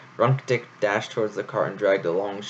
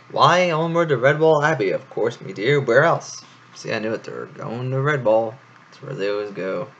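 cheery hare; 2 semitones higher, 4 dB louder than usual. Acted.

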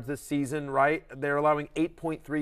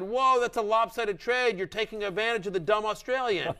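lightly voiced scoffing league mate; mock league mate; 5 semitones higher than usual. Mocking league mates' reaction.

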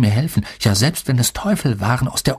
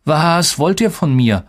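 slow, higher, mildly hostile demand; irritated hiss; 6 semitones higher, slower than usual. A narrator's reading. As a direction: draw it out with a touch of venom. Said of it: "zischte ich". (leicht gereiztes, gedehntes Zischen)

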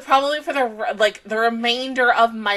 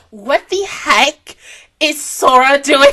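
louder, laughing through shocked words; can't believe it, laugh it out; excited disbelief; 6 dB louder, slower than usual. Real, not acted. Fan reacting to a surprise return, laughing shocked disbelief.

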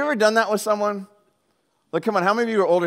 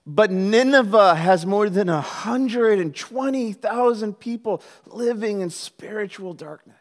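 solemn divine rebuke; 3 semitones higher, 3 dB louder, slower than usual. Acted. Reads the Lord's rebuke to Jonah.

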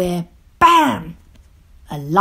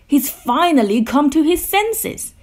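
raised, excited pitch; laughing triumph; 9 semitones higher, 4 dB louder than usual. A narrator's reading. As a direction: crow it with delight. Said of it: "Grouch laughed".

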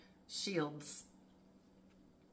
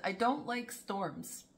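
said slowly and distinctly; "I don't like storms" spoken slowly, each word clear; 4 semitones higher, slower than usual. Retold or imitated. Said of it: "he wasn't talking fast when he said it".

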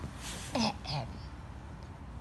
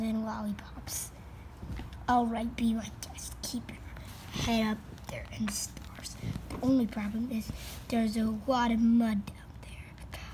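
sarcastic whisper. Acted.

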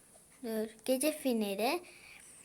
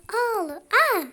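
excited squeal; 9 semitones higher, 10 dB louder than usual. Real, not acted. Game action works.

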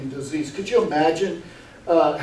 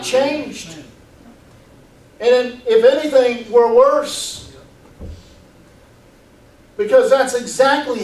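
raised, emphatic pulpit delivery; higher, driving sermon voice; forceful preaching; 7 semitones higher, 4 dB louder, slower than usual. Real, not acted. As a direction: preach it insistently, pitched up.

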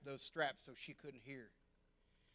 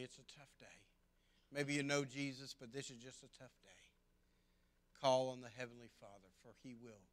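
soft closing blessing; 2 semitones lower, 6 dB quieter, faster than usual. Real, not acted.

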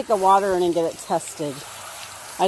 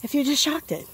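mock rude commenter; 7 semitones higher, 4 dB quieter than usual. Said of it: "before somebody says".

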